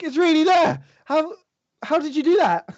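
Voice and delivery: put-on a kid who can't believe his eyes; boy asking the wizard how he did it, high and excited; amazed boy.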